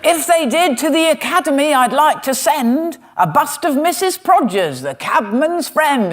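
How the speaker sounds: a mock cockney music hall performer, milking each line; music hall comic. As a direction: ham it up like an old music hall comedian delivering the gag. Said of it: "Old music hall".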